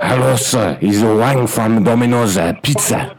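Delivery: clipped broken English, hammed-up Chinese accent; mock Chinese accent. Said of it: "as an Asian guy".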